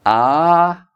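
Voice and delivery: high, deliberate ha-has; playful put-on laughter; fake laugh. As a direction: sound out a staged laugh. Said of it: "Do you think I'll play backwards?".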